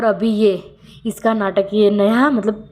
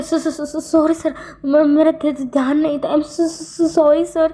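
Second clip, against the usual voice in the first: stammering apology; 7 semitones higher, slower than usual. Retold or imitated. Scared new secretary stammers apology.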